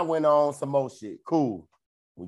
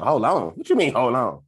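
louder, disbelieving throwback of her words; indignant retort; 3 semitones lower, 5 dB louder than usual. Retold or imitated. Son repeating his mom's words back in disbelief, indignant. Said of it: "I was like".

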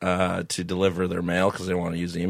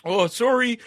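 "sorry" called out high and loud in a Canadian accent; Canadian accent, sorry shouted across the yard; Canadian sorry yelled; 13 semitones higher, 4 dB louder than usual. Shown as a demonstration. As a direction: yell "Oh, sorry" Canadian style, like to a far-off neighbor. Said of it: "the Canadian accent's like I'm yelling at my neighbor".

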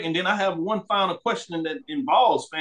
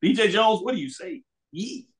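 excited; 6 semitones higher than usual. Real, not acted. Host hypes rivalry question.

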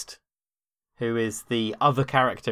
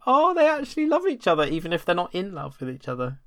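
touched; 6 semitones higher than usual. Retold or imitated. Voices a player's touched reaction.

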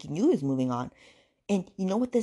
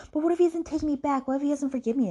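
high, hammed-up fretting; mock worried fretting; 9 semitones higher, 3 dB louder than usual. Woman fearing he won't take her back, mock-worried. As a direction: imitate her worrying in a raised, pleading pitch. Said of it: "And she goes".

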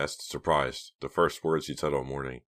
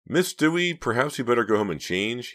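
stern manager; 8 semitones higher, 4 dB louder than usual. A narrator's reading. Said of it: "he suggested".

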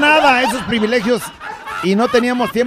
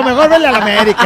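"Mejor vele a la América" said quicker and louder through a laugh; laughing retort; 3 semitones higher, 3 dB louder, faster than usual. Retold or imitated. Host retorting to his son, laughing. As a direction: fire back "vele" with a laugh.

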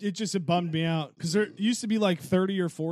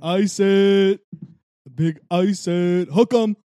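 excited shout; 6 semitones higher, 11 dB louder than usual. Real, not acted. Hyped cheer for Texas bet.

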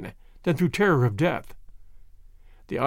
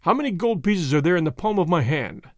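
quiet. Acted. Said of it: "he asked quietly".

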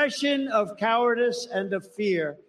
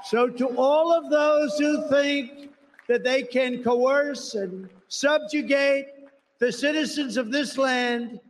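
roaring rallying speech; 4 semitones higher than usual. Real, not acted. Rally climax, crowd-rousing refrain.

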